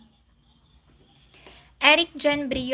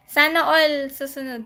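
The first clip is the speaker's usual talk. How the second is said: "Sana all susunod" called out louder, falling hard on "all"; 7 dB louder than usual. Acted. A streamer calls out her wish to be next to her viewers, louder. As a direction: punch "all" and drop the pitch after it.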